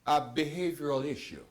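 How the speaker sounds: high, loud, laughing through the point; excited objection. Real, not acted. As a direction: push back eagerly, way up high. Host argues excitedly with a laugh.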